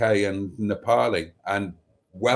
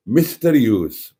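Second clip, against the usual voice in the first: put-on slow, louder Welsh accent; John Crate's Welsh accent; 4 dB louder, slower than usual. Reading a viewer's greeting in a Welsh accent. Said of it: "I'll do that in John Crate's Welsh accent".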